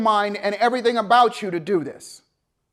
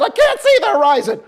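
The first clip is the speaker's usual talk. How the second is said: laughing panicked yell; 7 semitones higher, 6 dB louder than usual. Retold or imitated. Yelling, laughing.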